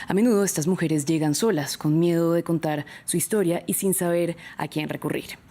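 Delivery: measured newsreader delivery; news read. Acted. Host introducing a report on Malala to viewers, news-anchor read.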